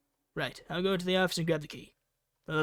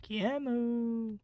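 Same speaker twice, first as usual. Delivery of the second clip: calling out; 5 semitones higher, much slower than usual. Real, not acted. Calling out for Kiemu in game.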